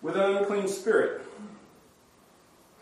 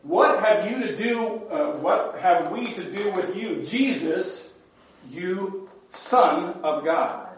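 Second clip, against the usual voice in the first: raised, insistent outcry; crying out; 3 semitones higher, slower than usual. Acted. Demons challenge Jesus on the road, crying out. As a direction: call it out as a confrontation. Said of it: "suddenly they cried out".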